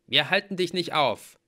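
brusque Mallory. A narrator's reading. Mallory tells hero they won't stop him, forcefully. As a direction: declare it forcefully.

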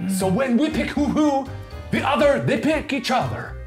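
hammed-up French art host accent; fake French accent. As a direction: play a pompous French artist, thick mock accent. Keeps the French voice.

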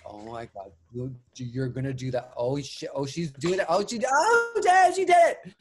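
builds from murmur to a high shrieking cheer; rising from hushed disbelief to ecstatic screaming; audience going wild. Retold or imitated. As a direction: act out a crowd realising she really did it. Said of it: "you can hear where people are like".

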